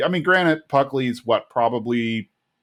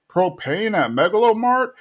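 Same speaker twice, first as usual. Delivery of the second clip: high-pitched disbelieving question; mock scandalized, voice climbing to the end; incredulous outrage; 10 semitones higher than usual. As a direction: echo it back in disbelief. Hank reacts to rival's commercial.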